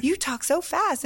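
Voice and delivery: lightly mocked Louisianan, voiced aloud; mock Southern remark. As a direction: say it up high and drawn out. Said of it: "people would be like".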